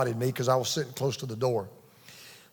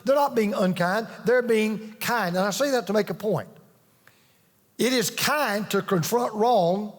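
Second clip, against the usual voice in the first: raised, driving sermon voice, higher pitch; preaching; 4 semitones higher than usual. Acted. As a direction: preach it out to the congregation with conviction. Preaching at full force.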